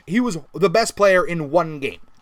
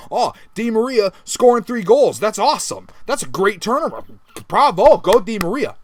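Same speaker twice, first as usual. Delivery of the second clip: mock praise; 3 semitones higher, 4 dB louder than usual. Sarcastic imagined praise.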